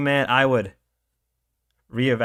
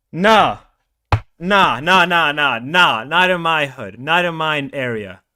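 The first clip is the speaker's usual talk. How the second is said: angry refusal; 4 dB louder than usual. Real, not acted. Loud repeated refusal.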